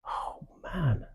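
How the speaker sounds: hushed shocked sympathy; a whispered gasp of real concern; feeling it first. Shown as a demonstration. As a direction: draw them into the bad feeling. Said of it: "I need them to feel negative".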